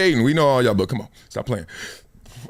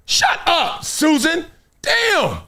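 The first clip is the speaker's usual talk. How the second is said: much higher, dismissive snap; mock put-down; 13 semitones higher, much slower than usual. Telling off a lecturing freshman, high mock snap. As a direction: brush the know-it-all off.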